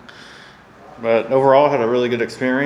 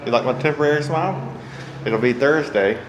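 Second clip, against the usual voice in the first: slightly slurred numb-mouth speech; numb from the dentist. Real, not acted. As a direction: talk with a numb mouth after dental work. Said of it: "I'm talking a little funny 'cause my mouth is still numb".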